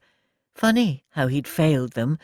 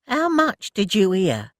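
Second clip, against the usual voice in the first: louder, slow and pointed; demanding; 7 semitones higher, 4 dB louder than usual. Acted. Elsie confronting Ted, slow demanding. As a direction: pin him down hard. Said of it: "she demanded".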